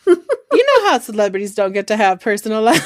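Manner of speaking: laughing through the sentence; amused. Real, not acted. Host answering co-host's joke, laughing. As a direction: let a giggle break up the words.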